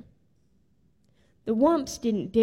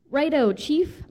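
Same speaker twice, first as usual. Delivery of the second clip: higher, louder eager reply; mild bark; 5 semitones higher, 5 dB louder than usual. A narrator's reading. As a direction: bark it back like men taking orders. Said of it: "barked the men".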